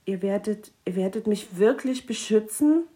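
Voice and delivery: shyly. Acted. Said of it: "fragte der Wichtel schüchtern".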